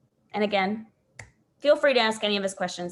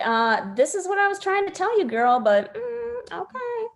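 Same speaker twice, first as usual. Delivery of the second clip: mock exasperated; 10 semitones higher than usual. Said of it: "you're like".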